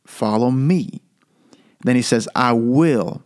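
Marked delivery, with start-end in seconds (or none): 0.0-1.0 "me" held and emphasized; stress on "me". Shown as a demonstration. Preacher contrasting a person with a system, stress on "me". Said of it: "So I'm emphasizing each word". 2.3-3.2 "will" held and emphasized; stress on "will". Shown as a demonstration. Preacher pointing out the promise in the verse, stress on "will". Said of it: "So I'm emphasizing each word".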